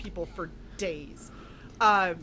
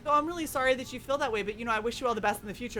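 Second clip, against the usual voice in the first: sweet fake politeness; much faster than usual. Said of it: "And you're like".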